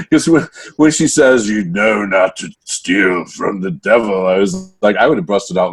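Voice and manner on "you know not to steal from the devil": slow, mock menacing devil line; lightly hammed-up threat; over-the-top threat. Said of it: "it was a little over the top".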